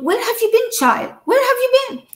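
put-on high, gentle old holy man's call; the late Pope calling to a child who wandered off, lifted high; the Pope asking. Old Pope asking where the child has been, voice lifted high. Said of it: "and he's going".

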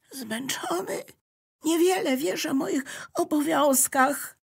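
high, indignant notebook cutting in; the notebook cuts Electricity off, impatiently; impatient interjection. Acted. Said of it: "wtrącił niecierpliwie Zeszyt".

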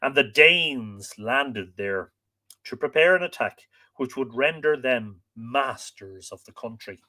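measured, expressive storytelling voice; story narration. A narrator's reading. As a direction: read it like an old legend, stressing key words. Reads the tale aloud.

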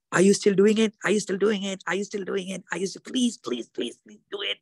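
mock-beg as if chasing someone; mock nagging plea. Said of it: "God is not gonna come behind you and say".

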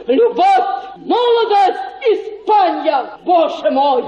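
rapturous, half-shouted cry; ecstatic exclamation. Acted. Matchmaker painting a romance for the suitor, ecstatic cry. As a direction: swept away, calling it out. Carried away by her romantic picture.

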